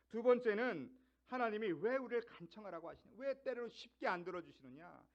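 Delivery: ordinary delivery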